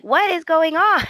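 high-pitched retold disbelief; mock bewilderment. Hope to beat-up Thomas, mock bewilderment. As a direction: imitate a baffled demand for answers.

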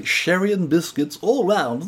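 put-on slow, plummy English posh accent; drawn-out upper-class English voice. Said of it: "That's how he said it".

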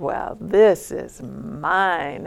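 slow, mildly self-important retelling; big-ego claim. Retold or imitated. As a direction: claim it slowly, with understated swagger. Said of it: "in kind of this big egoic way".

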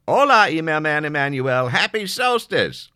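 loud, high, hammy phone hello; loud cheery greeting. Acted. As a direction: sing out the greeting to the caller.

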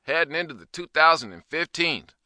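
big, high, loud show-host inflections; stupid-ass inflections. Acted. Host greeting the audience in an obnoxious, over-inflected announcer voice. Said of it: "using my voice with these stupid-ass inflections".

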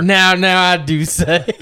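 hammed-up Southern, half laughing; Southern accent. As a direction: draw it out like a Southern gentleman. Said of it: "what our Southern accent does now".

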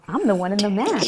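lightly acted self-acceptance, with a lilt; proudly owning it. Host voicing guest's acceptance of the mask, lightly proud. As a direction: say it as if happily claiming the label. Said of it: "come to this place where you're like".

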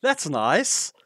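high, delighted "Oh, that's nice"; a lightly acted pleased reaction on first hearing the voice; pleasantly surprised. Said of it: "and you're like".

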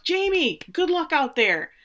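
high, called-out encouragement; imitated yell. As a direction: call across the field, pitched well up. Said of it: "Ted yells".

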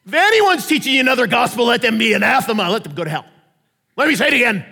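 Paul rebuking the Galatians, loud and forceful; angry Paul. Retold or imitated. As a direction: hammer the false teachers. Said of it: "He's like".

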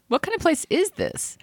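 high, soft, laughing echo. Real, not acted. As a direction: repeat it through a laugh. Laughing echo of read line.

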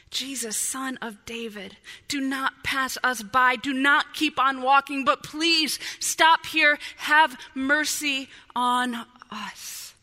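beg, slowing heavily on the last words; desperate pleading. Acted. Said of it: "Such desperation".

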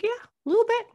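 high bashful confession; sheepish teen. Retold or imitated. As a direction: admit it like a bashful kid. Teen son admits jealousy.

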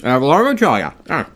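chewing while talking; muffled by a bite of pastry; mouth full. Real, not acted. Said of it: "I'm eating a Pop-Tart".

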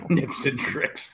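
laughing. Real, not acted. Laughing repeat of joke.

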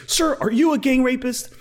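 high, hammed-up Southern parody question; Southern senator voice. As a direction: sneer it like an indignant Southern senator. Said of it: "turn on that Southern drawl".

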